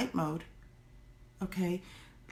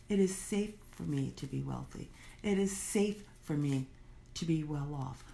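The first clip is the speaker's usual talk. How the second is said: measured, softly spoken affirmations; settled self-affirming statements, gently delivered; affirmation recital; 4 semitones lower, 4 dB quieter than usual. Shown as a demonstration. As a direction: recite each one evenly with small pauses.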